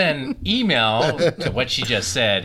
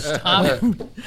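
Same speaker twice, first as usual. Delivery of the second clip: laughing; 5 semitones higher than usual. Real, not acted. Laughing at a friend.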